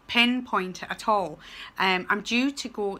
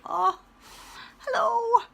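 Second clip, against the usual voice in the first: much higher, gushing with joy; delighted greeting; 13 semitones higher, slower than usual. Retold or imitated. Teacher greeting her pupils in the street, gushing. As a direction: coo hello like a happy teacher. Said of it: "I'm like".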